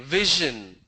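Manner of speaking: vision as VI-zhun; zh example. Shown as a demonstration. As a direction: buzz the zh in vision. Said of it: "It's a zh sound".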